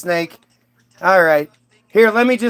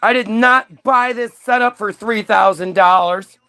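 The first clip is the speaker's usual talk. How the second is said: mock indignant scolding. God scolds Eve.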